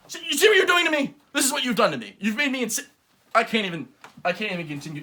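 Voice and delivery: loud challenge building to unhinged yelling; mock rage. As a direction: call out the virus like a wrestler. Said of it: "I've gone insane".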